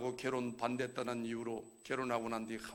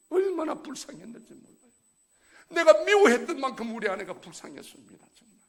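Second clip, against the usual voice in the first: pained cry; 9 semitones higher, 13 dB louder than usual. Real, not acted. Grief over dying wife.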